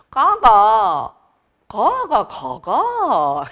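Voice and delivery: 가가 drawn out slowly with dialect pitch; Gyeongsang dialect tones. Shown as a demonstration. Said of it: "이 억양을 좀 다르게 하잖아".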